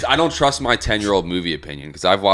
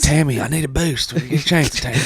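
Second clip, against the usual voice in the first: put-on southern accent; 6 semitones higher than usual. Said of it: "southern accent".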